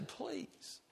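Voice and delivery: a soft whispered plea to God; unvoiced whispered please. Shown as a demonstration. Preacher showing a quiet request in a whisper. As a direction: breathe the word Please with no voice. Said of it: "You don't even have to say".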